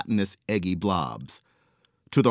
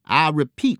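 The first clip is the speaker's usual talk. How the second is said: loud commanding call; hollering; 8 semitones higher, 6 dB louder than usual. A narrator's reading. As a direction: order the blob with authority. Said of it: "he hollered".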